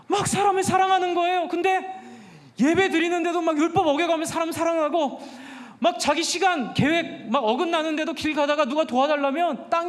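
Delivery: lively sermon preaching. Acted. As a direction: drive the message home to the congregation. (열정적인 설교)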